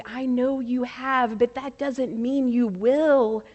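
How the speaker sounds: gently voiced, mild reassurance; calmly steady someone who doubts himself. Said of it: "she said so calmly".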